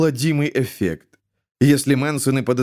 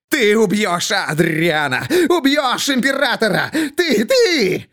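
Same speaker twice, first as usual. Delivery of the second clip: commanding; 8 semitones higher than usual. A narrator's reading. Jester commands them, as if possessed. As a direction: order it, no longer asking. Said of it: "не спрашивает, а приказывает".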